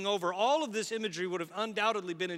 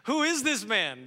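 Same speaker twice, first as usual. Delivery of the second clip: louder, higher, slow; awed fright; 4 semitones higher, 6 dB louder, slower than usual. Acted. Terrified disciples asking each other about Jesus, loud awe. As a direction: gasp it out in terror.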